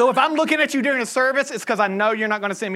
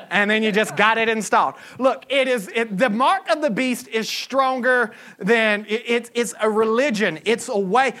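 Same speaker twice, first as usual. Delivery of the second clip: usual speaking voice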